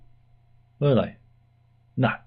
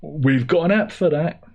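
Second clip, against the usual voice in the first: high chirpy sales pitch; bright mock advert voice; quoting a boss; 6 semitones higher than usual. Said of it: "he's saying, he's saying".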